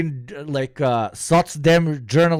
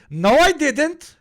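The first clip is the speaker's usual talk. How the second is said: high, loud, drawn-out denial; mock indignant denial; 12 semitones higher, 5 dB louder, slower than usual. Man cutting off the objector, high loud mock denial. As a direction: cut them off with a squeaky, slow protest.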